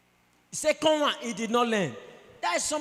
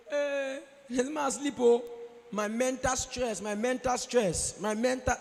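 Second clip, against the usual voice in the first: slow, drawn-out self-pitying moan; whiny excuse; 3 semitones higher, slower than usual.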